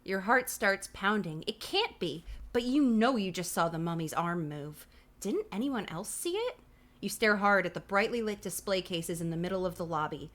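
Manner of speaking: suspenseful, emphatic read-aloud; animated narration leaning on key words; story narration. A narrator's reading. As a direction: read it like a spooky children's book. Reads the book aloud.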